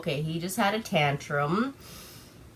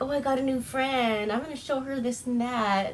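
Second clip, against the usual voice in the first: higher, lightly giddy imitation; mock giddy; 4 semitones higher, 4 dB quieter than usual. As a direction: imitate a boyish, playful excitement. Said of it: "like, really giddy".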